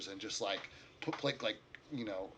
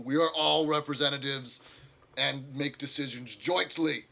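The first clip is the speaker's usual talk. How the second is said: a touch of formal orc leader, a little raised; orc council leader; 3 semitones higher, 5 dB louder than usual. Acted. Orc leader presenting the council, lightly formal. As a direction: explain the council with dignity.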